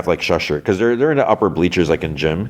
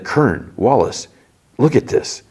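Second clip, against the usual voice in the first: higher-pitched, punchy names; calling others over; 6 semitones higher, slower than usual. Retold or imitated. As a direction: summon colleagues to see something startling. Chief calls officers over to photos.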